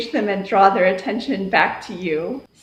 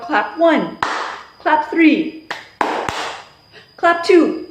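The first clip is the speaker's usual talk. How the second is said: teacher call; 4 semitones higher, slower than usual. Shown as a demonstration. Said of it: "or I'll mix it up".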